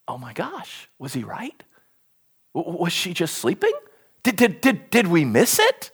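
soft, low, hushed second-guessing; hushed doubt. Pretend. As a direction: murmur it as if afraid you missed something. Imagined doubting mourner.

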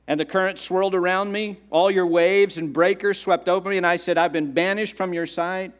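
declaimed Bible verse, building in force; dramatic scripture reading. Acted. Jonah tells God of the engulfing waters, dramatic reading. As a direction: read the prayer out with urgency. Reads Jonah's prayer aloud.

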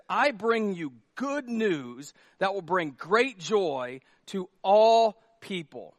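slow, solemn announcement; proclaimed slowly. Acted. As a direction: proclaim the good news, slowly. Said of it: "Now, I love this".

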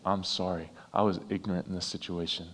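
soft, quiet, sincere apology; a heartfelt quiet I'm sorry. Shown as a demonstration. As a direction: say it softly, meaning every word. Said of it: "look at someone sincerely and say".

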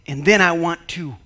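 lightly voiced sly enemy, gloating; a hint of a scheming devil; enemy's voice.

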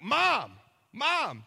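high, loud panicked shouts; yelling for mom. Retold or imitated. Half-asleep husband yelling for his mom in the night. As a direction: yell for your mom like you just woke from a nightmare. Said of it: "I'm like".

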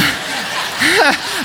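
high burst of real laughter. Real, not acted. Pastor laughing about his intern praying with eyes open, real laughter.

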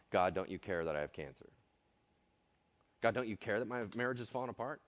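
ordinary talk

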